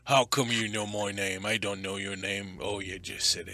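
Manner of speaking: lightly voiced rustic rock giant, grumbling; gruff Boulder, indignant. Boulder questions the stranger in his house, mildly indignant creature voice. Game master plays Boulder.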